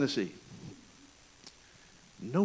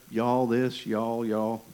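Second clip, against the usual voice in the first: put-on southern accent; 4 semitones lower, much slower than usual. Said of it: "southern accent".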